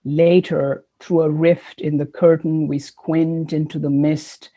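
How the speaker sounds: slow, measured poetry recital; poem reading. Acted. Poet reading The Singing Bone, measured recital. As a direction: read it line by line, deliberately.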